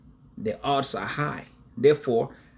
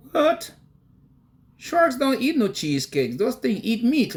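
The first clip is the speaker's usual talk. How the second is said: incredulous retort; 11 semitones higher than usual. Retold or imitated. Nephew answers uncle's cheesecake question, high and incredulous. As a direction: react in high-pitched mock disbelief. Retells own baffled reply to uncle.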